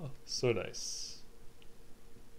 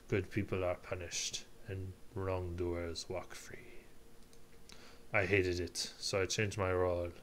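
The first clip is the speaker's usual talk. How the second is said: measured, subdued reflective monologue; a hint of a solemn lawyer recalling the past; lightly voiced prosecutor; 3 semitones lower, 4 dB quieter than usual. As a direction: reflect soberly on a career in law. Prosecutor character's monologue continues.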